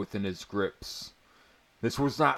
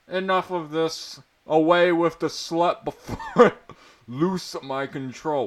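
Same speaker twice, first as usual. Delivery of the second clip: much higher, loud royal rage breaking into a laugh; shrill prince; 8 semitones higher, 8 dB louder than usual. Acted. Prince orders guards away, high and furious. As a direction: shriek the order like a pompous prince losing it.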